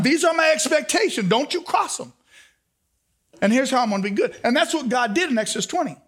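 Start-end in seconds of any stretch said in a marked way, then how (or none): 0.0-2.1 stern dad. Acted. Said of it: "as a daddy".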